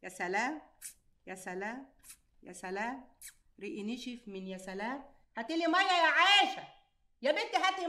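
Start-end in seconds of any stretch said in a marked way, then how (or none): 0.0-5.0 soft, low dreamy sighing; dreamy sighs. Acted. Aunt sighing dreamily about love until her mouth dries. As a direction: sigh it out softly, lost in a memory.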